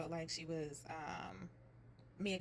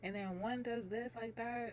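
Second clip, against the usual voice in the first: retold flip-out; 4 semitones higher than usual. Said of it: "flipped out".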